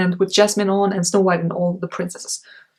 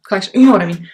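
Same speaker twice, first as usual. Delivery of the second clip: emphatic; 8 dB louder, faster than usual. Acted. Insists on the word collection.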